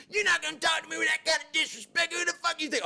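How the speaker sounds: high furious shout; snapping. Retold or imitated. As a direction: blow up and shout it out. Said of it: "I just snap".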